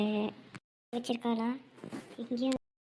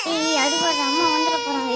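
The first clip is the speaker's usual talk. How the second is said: urgent scold; 3 semitones higher, 5 dB louder than usual. Acted. Older sister hushing crying sibling.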